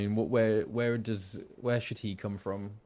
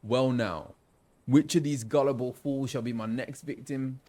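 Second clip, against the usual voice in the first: louder London roadman voice; roadman accent; 3 semitones higher, 6 dB louder than usual. Acted. Roadman merchant picking out his next victim, street London accent. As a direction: play the villain as a roadman. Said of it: "I feel like I might do a roadman".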